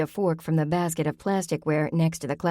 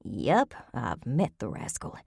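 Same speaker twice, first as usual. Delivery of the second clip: hushed, much softer, low voice; whisper; 4 semitones lower, 5 dB quieter than usual. A narrator's reading. Grandmother whispering back to Cooper while eavesdropping, hushed. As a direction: whisper it so they won't hear. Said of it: "Grammy whispered back".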